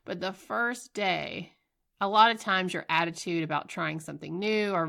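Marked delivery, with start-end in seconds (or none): none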